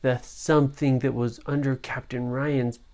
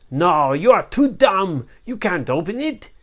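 scornful pirate captain; 4 semitones higher, 6 dB louder than usual. Acted. Captain scolds dumb henchman.

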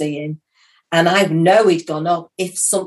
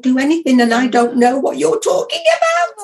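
laughing panic; 7 semitones higher than usual. Retold or imitated. Retells panic, laughing-crying.

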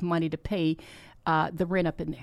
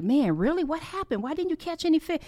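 higher-pitched, disbelieving quizzing; mock incredulous questioning; 9 semitones higher than usual. Imagining Jesus quizzing the fishermen, mock incredulous. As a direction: ask it in a high, mock-baffled voice.

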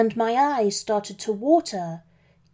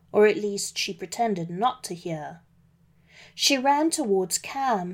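ordinary delivery, nothing marked

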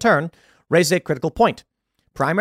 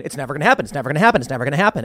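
mocking repetition; 3 semitones lower, much faster than usual. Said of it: "keeps telling me over and over".

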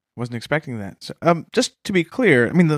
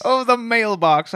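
mock awe; 7 semitones higher, slower than usual. Echoing the announcement.

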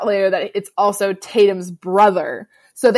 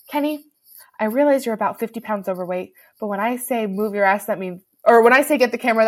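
calm; faster than usual. Retold or imitated. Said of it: "she says so calmly".

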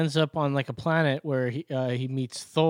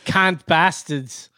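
mock British; much slower than usual. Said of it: "No, can't".

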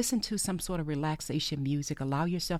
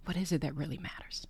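hushed, softer whisper; 5 dB quieter than usual. Real, not acted. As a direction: barely breathe the question. Repeated question after pause.

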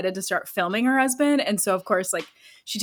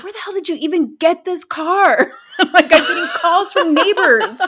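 high, louder, laughing scold; laughing exasperation; 8 semitones higher, 5 dB louder than usual. Retold or imitated. Wife laughing at husband's old station wagon, high. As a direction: scold him while cracking up. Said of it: "And she's just like".

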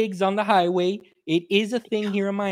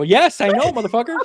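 mock annoyed; 4 semitones higher, 4 dB louder than usual. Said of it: "And I go".

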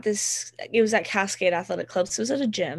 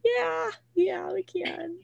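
forced cheer; 10 semitones higher, much slower than usual. Retold or imitated. Retold forced reply to boss.

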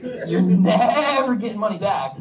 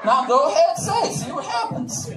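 imitating bystanders. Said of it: "these two black guys right beside me were like".

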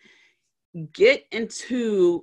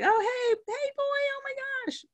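put-on much higher, squealing baby talk for a dog; gushing at the dog; 5 dB quieter than usual. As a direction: coo over the dog like it's the best thing ever. Greeting the happy dog.

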